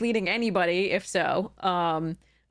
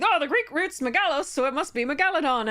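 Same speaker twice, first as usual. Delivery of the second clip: put-on quoting old reasoning; 7 semitones higher than usual. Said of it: "my mother and I have always been like".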